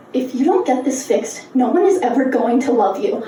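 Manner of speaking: low, deliberate menace; cruel speech therapist. Retold or imitated. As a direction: lean in and deliver it low and cold. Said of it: "So she leans in and goes".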